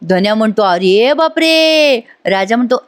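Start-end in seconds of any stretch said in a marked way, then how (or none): 0.6-2.0 high, very drawn-out mock gasp of words; mock astonishment. Friend reacting to the confession, mock astonishment. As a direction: stretch it out in pretend shock.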